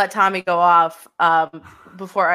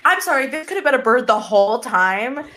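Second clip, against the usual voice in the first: higher, retold indignant rant; mock-furious higher rant; mock fury; 4 semitones higher than usual. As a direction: replay your outrage, half joking. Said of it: "I was furious".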